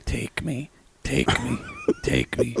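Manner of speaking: mock breathless plea. Lisa voicing her body's plea, high and mock-pleading. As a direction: beg in a hammy high voice.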